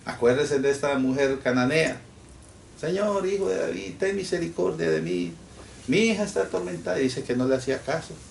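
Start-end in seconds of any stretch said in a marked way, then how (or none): 2.8-7.0 pleading cry. Acted. Canaanite woman cries to Jesus.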